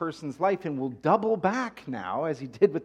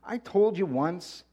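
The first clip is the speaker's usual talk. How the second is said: higher, louder, fed-up retort; exasperated man, raised pitch and voice; exasperated exclaim; 7 semitones higher, 4 dB louder than usual. Acted. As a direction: snap back at the questioners, worn out by them. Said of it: "the man exclaimed".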